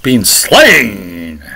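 "slain" swooped and drawn out; mock excited stress. Preacher mimicking the singer's excitement, exaggerated stress on "slain". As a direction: lean hard and long on "slain". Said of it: "you're more excited about Jesus being killed".

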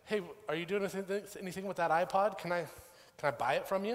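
imitating a keen buyer; eager request. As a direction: ask hopefully, in a hurry. Friend eagerly asks to buy iPod.

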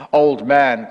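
loud demon call, hammed up; demon's cry. A narrator's reading. Demon calls after the retiring priest, loud cry. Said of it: "cried the demon".

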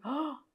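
tomar aire de golpe, bajito; inhalación ahogada que imita la angustia; jadeo imitado. Retold or imitated. Repite el jadeo del duelo. (suspiro entrecortado imitado)

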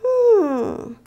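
muy lento y agudo, reflexionando; piénsalo en voz alta despacio; Lupo pensativo. Acted. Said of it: "pensó Lupo". (Lupo reflexiona, lento y agudo)

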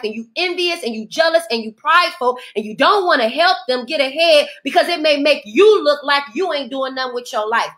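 ordinary talk

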